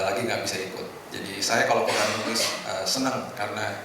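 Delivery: usual speaking voice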